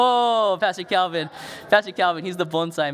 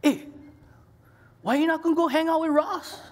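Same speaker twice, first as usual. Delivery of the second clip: higher, laughing question as the wife; wife asking; 11 semitones higher than usual. Retold or imitated. Wife asking her husband why he skipped his friend, laughing. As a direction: tease him, half laughing. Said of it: "and she goes".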